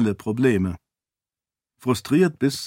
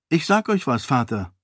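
higher, candid, unbothered; frank princess; 3 semitones higher than usual. Acted. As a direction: speak freely to the king. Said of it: "erklärte Sarene freimütig". (freimütige Prinzessin)

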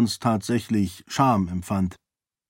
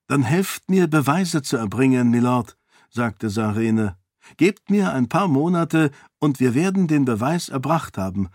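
put-on raised, earnest young woman's voice, arguing her case; a princess pleading for the peasants, lightly higher; Sarene, persuasive princess; 3 semitones higher than usual. (Sarene, eindringlich und höher gesprochen)

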